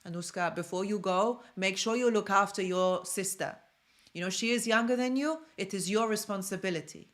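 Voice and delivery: lightly imitated Slavic-accented dad; attempted Polish accent. Dad telling his older daughter to mind her sister, attempted Polish accent. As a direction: put on a hint of a Polish accent, laying down the rule. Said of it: "I try to do a Polish accent".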